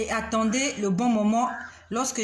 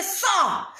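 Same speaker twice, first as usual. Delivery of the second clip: high-pitched retold command to get out; reenacted cry of command; retold inner cry; 6 semitones higher than usual. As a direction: cry out an order from the heart. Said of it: "Je criais, je criais, je disais".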